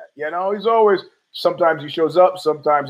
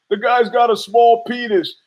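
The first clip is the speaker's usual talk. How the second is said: raised mock whiny voice; a higher voice for the upset girlfriend; quoted girlfriend; 6 semitones higher than usual. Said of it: "He goes".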